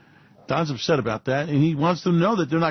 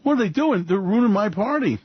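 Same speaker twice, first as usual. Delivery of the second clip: Trump complaining; 6 semitones higher than usual. Retold or imitated. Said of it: "talking about how the".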